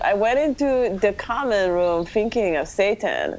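"I went into the common room" in a light, fast Jamaican accent. Shown as a demonstration. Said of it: "I'm gonna kinda do a Jamaican accent".

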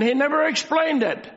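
"never" lifted in pitch and stressed; emphasis on never. Real, not acted. Preacher pressing a scripture point on the congregation, emphasis on "never". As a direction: hit "never" hard, then fall away. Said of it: "making a very special, uh, emphasis".

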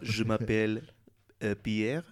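slow, low attempt at French; French accent. Showing off schoolroom French to friends, slow French accent. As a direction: introduce yourself in halting French. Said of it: "you, you studied French?".

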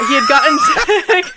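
giggling through the words; trying not to laugh. Real, not acted. Laughing through sad fact.

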